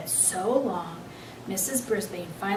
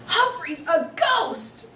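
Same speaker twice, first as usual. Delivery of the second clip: shouts; 9 semitones higher, slower than usual. Acted. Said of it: "shouts of".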